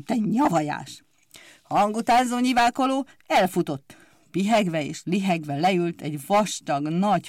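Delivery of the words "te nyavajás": whispered angry hiss. Acted. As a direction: hiss the insult under the breath. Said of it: "sziszegett neki". (suttogó sziszegés)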